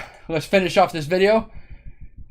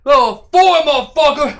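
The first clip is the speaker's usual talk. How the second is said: hype; 5 semitones higher than usual. Real, not acted. Hype train celebration.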